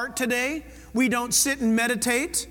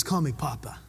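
tender; 9 semitones lower, 5 dB quieter than usual. Acted. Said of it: "That's about as tender as you can get".

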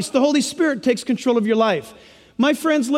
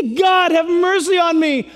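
pleading prayer; 6 semitones higher than usual. Acted. Preacher voices a sinner crying out to God, high and pleading. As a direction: beg God, rising higher toward the end.

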